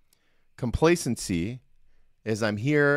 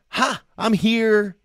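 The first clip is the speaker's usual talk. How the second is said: slow, higher, louder mock-smug gloat; 8 semitones higher, 5 dB louder, slower than usual. Shown as a demonstration. Coach contrasting complacency with contentment for listeners, slow smug gloat. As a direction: lean back and savour being on top, hammed up. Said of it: "Do you hear the difference?".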